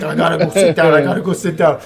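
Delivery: imitating a winded man; a touch of mock breathlessness; breathless. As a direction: say it as if short of breath. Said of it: "He can't even breathe".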